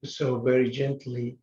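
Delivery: gentle guided-practice voice with long pauses; measured phrases, spaced out for a seated meditation. Acted. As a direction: guide them gently into breath and stillness, unhurried.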